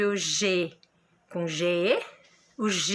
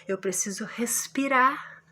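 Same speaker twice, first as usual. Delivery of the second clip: slow, breathy whisper as if out of air; a breathless little whisper. Shown as a demonstration. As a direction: whisper it like you need a breath. Teacher shows pausing for breath.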